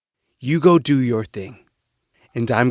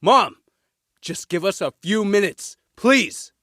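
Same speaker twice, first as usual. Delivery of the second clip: pleading; 7 semitones higher than usual. Acted. Son pleads with angry mother.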